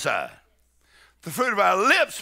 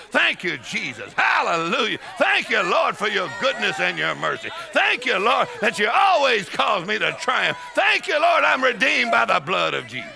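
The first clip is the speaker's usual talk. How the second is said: preaching praise; 3 dB louder than usual. Acted. Leads congregation in shouted thanks.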